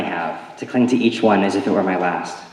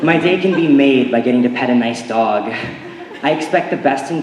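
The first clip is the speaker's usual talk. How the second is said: laughing; 3 semitones higher than usual. Real, not acted. Laughing after detergent commercial story.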